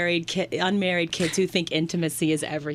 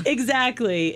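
slow, laughing, higher pitch; 4 semitones higher, slower than usual. Real, not acted. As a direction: say it through a laugh. Laughing agreement, then repeated plainly.

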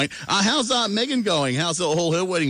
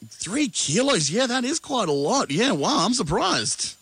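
surprised; 10 semitones higher, slower than usual. Real, not acted. Reacting to weight loss news.

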